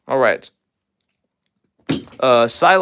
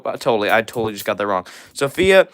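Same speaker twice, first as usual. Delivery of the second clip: normal talking voice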